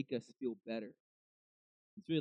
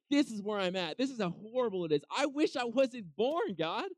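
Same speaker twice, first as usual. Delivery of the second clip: anguished lament; 7 semitones higher, 4 dB louder than usual. Retold or imitated. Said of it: "Being like".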